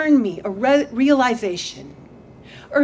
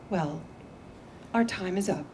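soft, quiet therapist closing the session; poem as therapist; 6 dB quieter than usual. Acted. The poem, as therapist, dismissing the poet: quiet and calm. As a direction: gently wind up the session like a counselor. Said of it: "says the poem".

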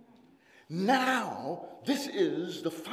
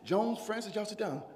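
softer, settling back after the outburst; calming down; 7 dB quieter, faster than usual. Real, not acted. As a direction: bring it back down, quietly. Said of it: "I got too excited".

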